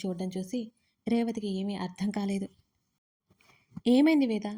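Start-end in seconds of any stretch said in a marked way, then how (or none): 3.9-4.5 puzzled question, raised and louder; bewildered. A narrator's reading. Revathi asks the shaken Veda what happened, bewildered. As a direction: ask in sudden bewilderment. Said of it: "అయోమయంగా అడిగింది".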